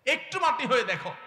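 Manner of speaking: the preacher's loud urging to be humble; impassioned plea. Acted. Repeated plea, louder first.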